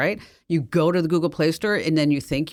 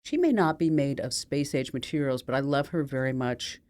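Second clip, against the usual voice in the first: proud and tender; 4 dB quieter than usual. Acted. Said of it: "holds his head up proudly and says".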